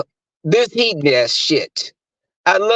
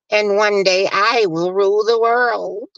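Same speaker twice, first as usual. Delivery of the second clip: lightly voiced Disney evil villain; cartoon villain; 3 semitones higher than usual. Mocking her as a villain plotting world rule, hint of cartoon evil. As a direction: imitate a villain declaring a grand scheme. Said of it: "like the evil villain in a Disney cartoon".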